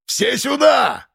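high drawn-out slow yell. A narrator's reading. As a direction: call everyone in, slowly. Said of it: "Снова заорал". (протяжный крик)

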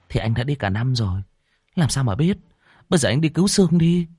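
high, fast, annoyed urging; irritated. A narrator's reading. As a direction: snap at him to hurry. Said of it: "Ngân nói bực dọc".

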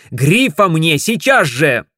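loud, slow barked order; barking demand. Acted. Ted barks at the operator, loud and slow. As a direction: bark it at the operator. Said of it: "я рявкнул".

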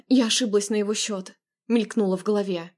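ordinary delivery, nothing marked

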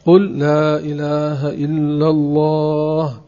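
"قل لا إله إلا الله" slowly, in full, unbroken; right way to teach. Shown as a demonstration. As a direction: teach it slowly and finish the whole phrase. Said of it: "ثم يقال له". ("قل لا إله إلا الله" ببطء وكاملة دون انقطاع)

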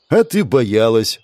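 slow, gentle teasing reassurance; peaceable. Acted. Holding Lucille, the priest gently reassures her after the fall. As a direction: soothe her kindly, unhurried. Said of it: "проговорил Олег миролюбиво".

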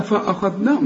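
فأخذناهم with thick, dark 'fa-a'; mock mistake, darken the opening of فأخذناهم; wrongly heavy hamza. Shown as a demonstration. Teacher shows students what not to say, wrongly heavy hamza. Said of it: "ما تقولش بقى".

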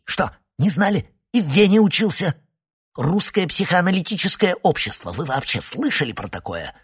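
громкий высокий отпор; добей его презрением; огрызаясь. A narrator's reading. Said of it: "огрызнулся Синайский". (огрызнуться громче и выше)

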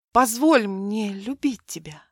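позволь мне любить тебя breathed in a whisper, no voice. Acted. Milena tenderly whispering her plea to Mark. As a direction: whisper it through trembling lips. Milena answers with trembling lips.

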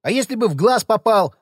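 furious shout. A narrator's reading. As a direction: scream at him. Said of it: "закричал Ходокири".

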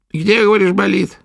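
high, loud crone's demand; gruff old witch. A narrator's reading. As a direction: prod the patient roughly. Witch asks.

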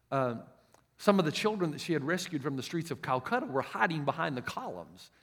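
ordinary delivery

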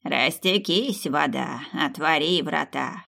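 slow chanted spell; slow ritual chant; incantation. Acted. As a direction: intone it like an old witch's charm. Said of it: "сказала старуха".

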